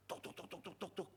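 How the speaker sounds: soft unvoiced tok tok knocking sound; imitated knocking. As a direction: tap out the knock with your voice. (tiruan ketukan pintu pelan)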